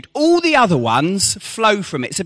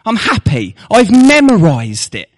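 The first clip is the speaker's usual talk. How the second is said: mock boast; 6 semitones higher, 4 dB louder than usual. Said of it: "If we just got to memorize".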